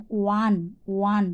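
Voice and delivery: ওয়ান starting on a "wa" glide; O as "ওয়া". Shown as a demonstration. Teacher showing O pronounced "wa" in ওয়ান. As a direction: say ওয়ান twice with a clear "wa". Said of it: "আর যখন ওয়া হয়".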